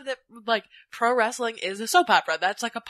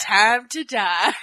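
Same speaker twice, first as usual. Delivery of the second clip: cavalier; 3 semitones lower, 4 dB louder, much slower than usual. Pretend. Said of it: "I would cavalierly say that".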